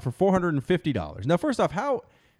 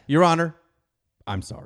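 mock courtroom apology. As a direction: play a contrite defendant, voice sinking at the end. Acting out apology to judge.

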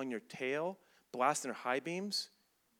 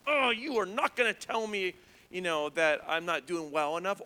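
hammed-up "how dare you"; defiant fight reaction; 2 semitones higher, 4 dB louder than usual. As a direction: act out bristling at someone. Acting out wanting to fight someone.

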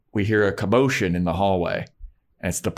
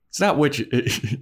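emphatic Giles; 6 semitones higher, slower than usual. Retold or imitated. Giles voiced, slow and emphatic.

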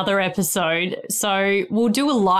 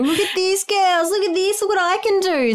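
imitating excited kids; 11 semitones higher than usual. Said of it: "putting their hands in my Play-Doh belly and going".

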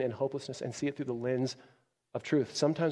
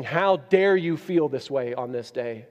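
stern rebuke; 5 dB louder, slower than usual. Acted. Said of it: "God is not looking at Moses saying".

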